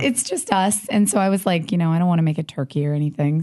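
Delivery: raspy sick voice; husky from a sinus infection; hoarse voice. Real, not acted. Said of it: "have you gone sexy voice?".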